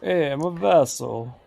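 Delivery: Italian Vince voice. Retold or imitated. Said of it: "that's my Italian Vince voice".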